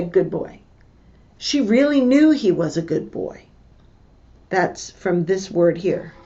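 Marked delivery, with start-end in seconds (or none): 0.0-0.6 offhand. Shown as a demonstration. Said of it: "She didn't just say".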